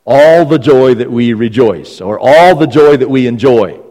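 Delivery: slow, loud stress on "All" and "joy"; emphatic. Shown as a demonstration. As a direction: punch "All the joy" hard each time, drawing it out. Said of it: "it's emphatic in its grammatical structure".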